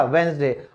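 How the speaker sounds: "वेंसडे" spoken without the d; "वेंसडे" as wens-day, teacher repeat; silent d. Shown as a demonstration. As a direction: say "वेंसडे", skip the d. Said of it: "क्या कहलाएगा".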